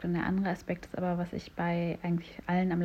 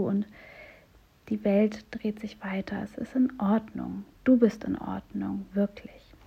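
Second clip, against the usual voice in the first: gentle, kind talking-to of oneself; soothing self-talk after a botched presentation; self-compassionate inner voice. Shown as a demonstration. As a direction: comfort yourself the way a good friend would. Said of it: "Und das klingt ungefähr so".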